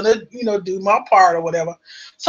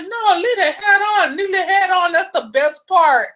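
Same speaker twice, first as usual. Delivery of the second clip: mock pleading; 8 semitones higher than usual. Husband insists on keeping head.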